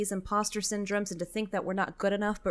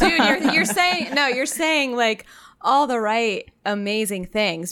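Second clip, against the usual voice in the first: touched; 3 semitones higher, 7 dB louder than usual. Real, not acted. Moved, gushing praise to friend.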